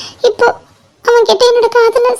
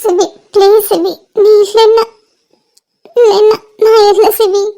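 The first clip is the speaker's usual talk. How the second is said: crying. Acted. Girl begs her love not to leave, tearful. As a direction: beg him through tears. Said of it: "அழாத, கஷ்டமா இருக்கு".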